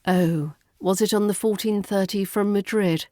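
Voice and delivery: tired, trying-to-help airline clerk; weary clerk still making an effort; exhausted but trying. Acted. Airline clerk Sharon helping a traveller, tired but trying. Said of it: "exhausted but trying".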